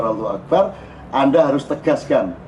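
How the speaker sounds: ordinary talk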